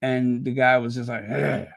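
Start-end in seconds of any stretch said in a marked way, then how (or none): 1.3-1.7 grunt. Retold or imitated. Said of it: "he just kinda grunted at him".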